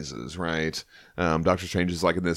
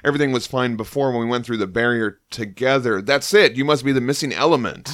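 booming herald voice; 3 semitones higher than usual. Acted. Reads Silver Surfer's lines.

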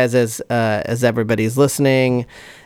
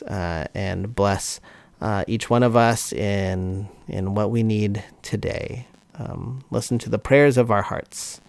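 earnest, measured prayer voice; 3 dB quieter than usual. Acted. Leads a closing prayer.

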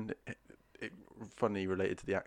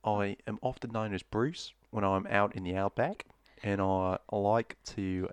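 slow, broad mock-Australian drawl; Crocodile Dundee; slower than usual. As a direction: stretch it out in a hammed-up Aussie accent. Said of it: "This is my Crocodile Dundee impression".

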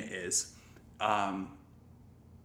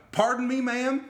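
high-pitched mock indignation; imitated offended question; indignant retort; 12 semitones higher, 4 dB louder than usual. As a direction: act out an affronted comeback, pitched way up. Acted retort in retold quarrel.

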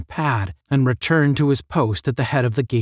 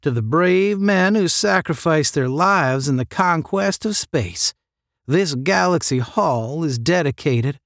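declaimed inscription, pitched up; mildly ceremonial reading voice; reading aloud; 5 semitones higher than usual. A narrator's reading. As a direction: read out a memorial plaque. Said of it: "reading aloud".

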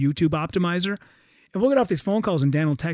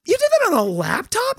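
lightly voiced wide-eyed wonder, higher; a hint of curious Dana; 13 semitones higher than usual. Dana Carvey marveling at the graphic, mild wonder. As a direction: ask like a delighted kid.

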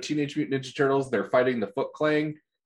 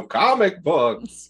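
exasperated shrug; 5 semitones higher, 4 dB louder, much slower than usual. Retold or imitated. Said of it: "wave our hands and go".

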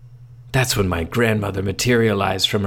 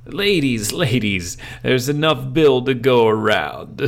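smug ladies' man; 4 semitones higher than usual. Acted. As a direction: play the smooth charmer. Bill boasting to the twins.

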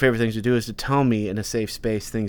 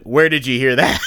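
louder, stern dad switching gears; 6 dB louder than usual. Retold or imitated. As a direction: drop out of kid-talk into serious dad. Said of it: "immediately I drop down, like, switch gears".

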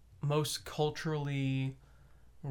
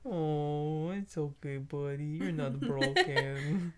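cooing to a scared pet; much slower than usual. Pretend. Soothes partner like pet.

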